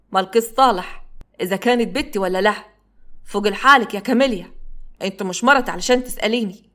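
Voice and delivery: a touch of a sharp shout in Upper Egyptian dialect; mild shout in dialect. Acted. Jasser scolds Kamelia for asking: mild shout in Upper Egyptian dialect. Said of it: "وزعق فيها بعلو صوته وبلهجته الأصلية".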